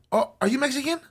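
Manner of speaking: high, gushing mock excitement; squealing, over-the-top delight; super excited strangers. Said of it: "they were super excited".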